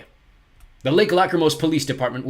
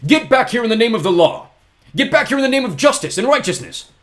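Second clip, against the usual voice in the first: much higher and louder yell; shouting; 13 semitones higher, 11 dB louder than usual. A narrator's reading. Poe yells at fleeing Olaf, shouting. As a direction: bellow after the fleeing villain. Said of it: "Mister Poe shouted".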